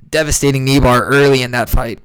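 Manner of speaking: talking through hiccups; speaking with the hiccups. Real, not acted. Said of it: "I got the hiccups right now".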